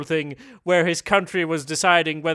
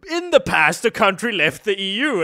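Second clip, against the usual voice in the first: imitating co-host; 2 semitones higher than usual. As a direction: quote them back in a raised, put-on voice. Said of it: "you're sitting here saying to me".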